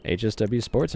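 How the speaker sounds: bright announcement of the race class; announcing to the lobby. Real, not acted. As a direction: call it out to the whole lobby.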